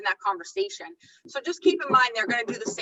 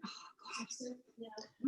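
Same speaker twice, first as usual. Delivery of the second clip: barely voiced, much softer groan at herself; breathy exasperation; 20 dB quieter than usual. Real, not acted. Trainer forgets her script mid-demo, soft exasperated groan. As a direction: sigh it out as if you lost your words.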